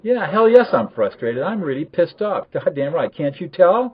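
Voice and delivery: loud, high, exasperated mock outburst; acted sarcasm. Role-played upset person answering a partner's label, loud sarcastic exasperation. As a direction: snap back with irritated, over-the-top sarcasm. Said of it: "you're supposed to respond with sarcasm".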